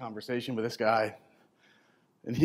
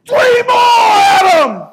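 high, loud, slow drawn-out yell; coach yelling; 16 dB louder, much slower than usual. Retold or imitated. Coach pushing Adam through final reps, loud slow yell. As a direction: drive him through the last reps.

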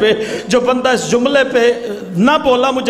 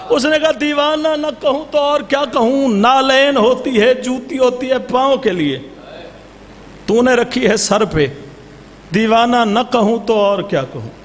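steady preacher's narration with voiced figures; majlis storytelling. A zakir narrating the Imam's sandal story, measured preaching. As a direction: tell the tale to the mourners. Repeats the merchant's line.

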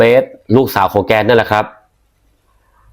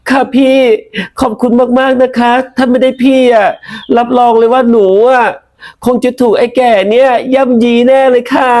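put-on higher, sweet girlish thanks; grateful young woman; 12 semitones higher than usual. Pu thanks the policeman who rescued her, high and sweet. Pu's tearful grateful girl voice.

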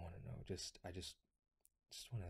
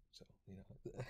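whispered shrug; 5 dB quieter than usual. Acted. Teasing friend in close roleplay.

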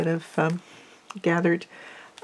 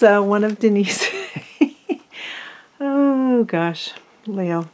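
laughing; 2 semitones higher, slower than usual. Real, not acted. Laughs at pet Leo.

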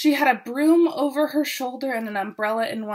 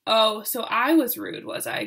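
growl; 4 dB louder than usual. Acted. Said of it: "growled Jack Frost".

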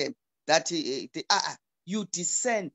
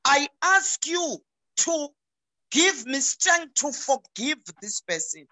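humble prayer; 5 semitones higher than usual. Shown as a demonstration. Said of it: "you say".

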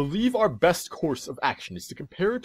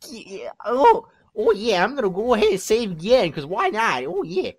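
higher, louder cocky toad voice; 4 semitones higher, 4 dB louder than usual. Acted. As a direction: play the obnoxious male toad. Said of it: "I haven't used this voice in so long".

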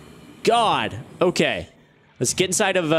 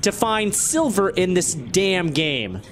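frustrated rant; 6 semitones higher than usual. Real, not acted. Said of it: "super duper frustrated right now".

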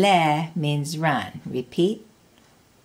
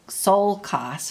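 "sol" stronger than "kas"; stress on SOL; 3 semitones higher than usual. Shown as a demonstration. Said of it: "with the stress".

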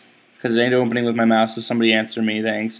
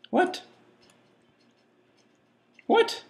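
baffled; 6 dB quieter than usual. Real, not acted. Baffled at the game hint.

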